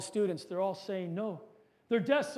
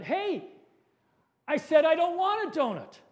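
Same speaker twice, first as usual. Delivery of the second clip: mild retold shout; 6 semitones higher, 3 dB louder than usual. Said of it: "Mike shouted".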